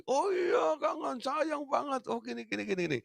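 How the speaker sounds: put-on high, eager little child gushing; excited child voice. Preacher voicing a child greeting papa with high excitement. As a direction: squeal it out like a delighted kid.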